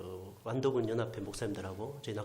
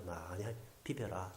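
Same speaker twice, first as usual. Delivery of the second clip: soft, slow and gentle; tender to child; 5 semitones lower, 9 dB quieter, slower than usual. Retold or imitated. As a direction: coax the child softly. Tender words to child on chest. (부드럽고 느리게 다정하게)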